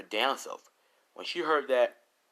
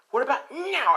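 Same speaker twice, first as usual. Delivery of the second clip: loud mocking taunt; 9 dB louder than usual. Rose taunting screaming victim.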